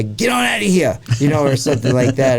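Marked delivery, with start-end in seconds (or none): 0.0-1.0 put-on southern accent. Mocking a TV Bigfoot witness in a high southern accent. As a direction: imitate a toothless guy's southern twang. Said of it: "he talks in the most southern accent".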